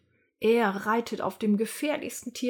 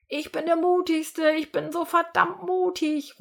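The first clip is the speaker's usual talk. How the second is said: much higher, bragging shout; boastful cry; 9 semitones higher than usual. Acted. Nick brags after scaring the animals, crowing excitedly. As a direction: crow about your courage. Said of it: "ruft Nick und fängt an zu lachen".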